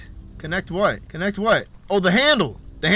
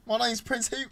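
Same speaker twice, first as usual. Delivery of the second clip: prince voice audition; 6 semitones higher than usual. Acted. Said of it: "I'm a good voice actor".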